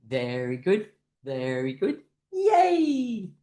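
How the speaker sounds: chanted praise into a high whoop; group cheer. Shown as a demonstration. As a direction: chant evenly, then burst into yay. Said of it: "clapping hands and going".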